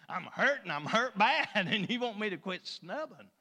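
mock wounded whine with a laugh; protesting child. Child protests to the parent after a whipping, protesting child. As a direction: complain like a hurt child, hammed-up.

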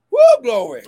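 high, loud whooping praise; joyful church whoop; ecstatic praise shout. Real, not acted. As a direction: let the glory burst out.

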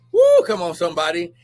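joyful whoop, high and loud; excited shout. Real, not acted. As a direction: let out a whoop of praise. Preacher shouting praise.

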